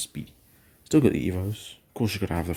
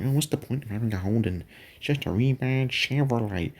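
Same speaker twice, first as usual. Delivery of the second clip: mock dismissive; 4 semitones higher than usual. Mimicking dismissive outsiders.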